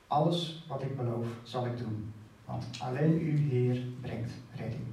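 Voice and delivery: solemn Bible reading of a prayer; scripture reading. Acted. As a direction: read Jona's prayer out with weight. Reads Jona's prayer aloud.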